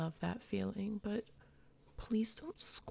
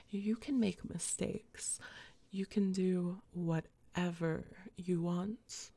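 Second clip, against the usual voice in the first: reassuring whisper. Acted. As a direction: soothe him, whispering. Reassuring the tearful listener.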